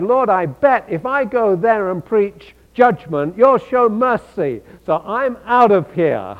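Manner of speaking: a hint of a sulky prophet bolting; Jonah bailing out. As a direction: Jonah telling God he's off to Tarshish, lightly mocking. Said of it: "And he said".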